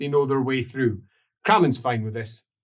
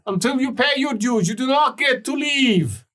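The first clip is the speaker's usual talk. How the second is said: voice from below; 10 semitones higher than usual. Acted. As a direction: press him to stay and pay. Creditor threatens Lucas.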